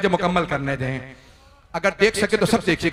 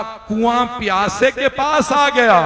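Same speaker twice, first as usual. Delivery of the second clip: higher, louder and slow, as if weeping with relief; tearful awe; 5 semitones higher, 4 dB louder, slower than usual. Acted. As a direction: let the line come slowly through tears. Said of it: "जनाबे हुर रोने लगे।". (रोते हुए ऊँची, धीमी आवाज़ में)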